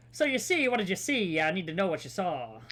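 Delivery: a hint of hard-boiled gumshoe; noir detective voice. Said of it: "Same spiel".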